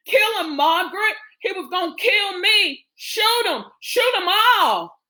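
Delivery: very high, frantic urging. Acted. Urging Margaret to shoot her brother, frantic. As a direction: egg them on in a panicked high voice.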